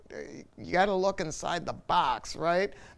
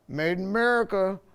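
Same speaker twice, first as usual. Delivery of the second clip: louder and higher, a proud sales boast; mock slogan; 5 semitones higher, 6 dB louder than usual. Mocking makers who bolt parts together, boasting loudly. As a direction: trumpet it like a marketing label. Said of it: "And then they go".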